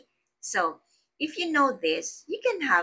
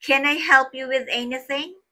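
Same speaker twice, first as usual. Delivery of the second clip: helpful offer; 7 semitones higher, 5 dB louder than usual. Shown as a demonstration. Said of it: "greetings that you are offering assistance".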